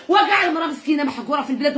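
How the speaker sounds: fast, shouted through tears; angry crying. Real, not acted. Repeated complaint, shouted take.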